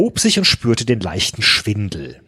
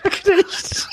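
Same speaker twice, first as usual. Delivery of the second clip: laughing. Real, not acted. Repeating funny line through laughter.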